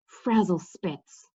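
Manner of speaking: slow, even and unhurried; calm. Acted. Cimmerian in the dark cave, casting calmly. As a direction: cast the spell with cool calm. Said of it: "Cimmerian said calmly".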